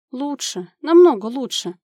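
mildly perky reassurance; cheerful. A narrator's reading. Sick mother cheering up her friend on the phone, lightly upbeat. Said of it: "бодро проговорила Юля".

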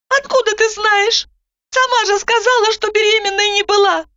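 put-on high, anxious young woman; doubting, nervous retort; Zhanna, anxious. A narrator's reading.

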